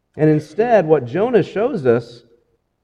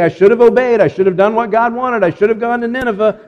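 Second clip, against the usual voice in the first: mock confession; 6 semitones higher, faster than usual. Voicing what Jonah should confess.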